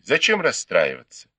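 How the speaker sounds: smooth it over gently; conciliatory. A narrator's reading. Si Zhen calming the offended girl, conciliatory. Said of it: "примирительно сказали".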